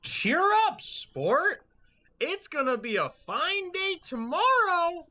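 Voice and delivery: high, loud forced cheerfulness; awkward cheer. Acted. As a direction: chirp it out like an awkward uncle. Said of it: "and he's like".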